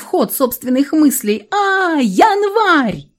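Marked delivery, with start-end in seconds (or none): 1.5-3.1 sudden high gasp of surprise; startled cry. Acted. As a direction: blurt it out, caught off guard. Startled cry on seeing January.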